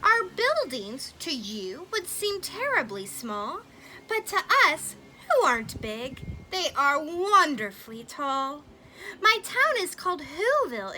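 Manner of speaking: a hint of a tiny grateful mayor; tiny mayor's voice. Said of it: "called the voice".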